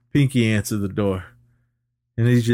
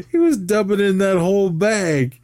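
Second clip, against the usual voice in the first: excited; 11 semitones higher, 4 dB louder than usual. Real, not acted. Excited recap of a funny scene.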